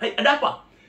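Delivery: high, sudden call of a startled pastor. Retold or imitated. Pastor coming out to a stranger at his church, high startled call. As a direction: pop the question up high, caught off guard.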